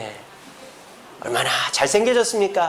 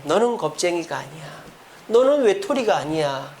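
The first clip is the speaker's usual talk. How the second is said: the angel's comfort; 3 semitones lower than usual. Acted. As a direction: speak it gently to Elijah. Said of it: "엘리야에게".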